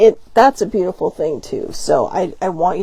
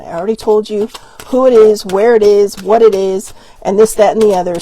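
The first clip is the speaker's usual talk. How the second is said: louder, emphatic mock telling-off; louder, hammering each item in a retold scolding; insistent telling-off; 6 dB louder than usual. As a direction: imitate an exasperated sibling listing it off. Sibling's imagined scolding, acted out.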